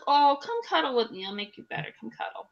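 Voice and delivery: sleepy coaxing. Retold or imitated. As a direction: lure him in, then trail off. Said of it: "In my sleep, I was like".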